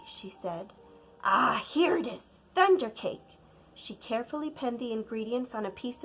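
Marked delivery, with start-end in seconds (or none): 1.2-3.3 happy discovery; delighted find. Acted. Grandma finding the recipe, delighted.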